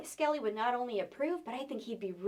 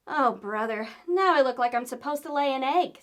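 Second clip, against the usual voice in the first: exasperated; 6 dB louder than usual. Acted. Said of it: "said Skelly".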